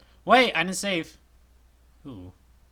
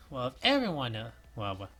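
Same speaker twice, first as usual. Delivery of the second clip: robot voice; 2 semitones higher than usual. Acted. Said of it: "Oh, I sound like a robot".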